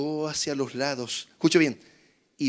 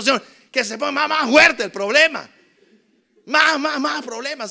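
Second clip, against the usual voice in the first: mock pleading; 10 semitones higher, 7 dB louder than usual. Jokey imagined prayer for more problems.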